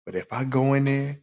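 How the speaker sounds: hushed so the wife won't hear; whispered aside to the listeners; whispering. Real, not acted. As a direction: keep it secret, barely voiced. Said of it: "yeah, I'm whispering".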